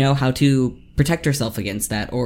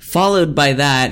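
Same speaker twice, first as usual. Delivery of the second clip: "Followed" said louder for clarity; louder repeat; 5 dB louder than usual. Real, not acted. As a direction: repeat it louder after "Huh?".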